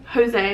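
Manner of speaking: "Jose" with an H sound at the start; Jose begun like "hoe", ending in "zay"; Spanish-style J. Shown as a demonstration. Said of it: "I think that you would pronounce it".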